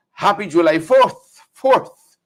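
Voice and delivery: slow, drawn-out holiday greeting with a lifted second fourth; Brennan's voice. Retold or imitated. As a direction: lightly mimic Brennan, stretching the words. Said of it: "and in Brennan's voice".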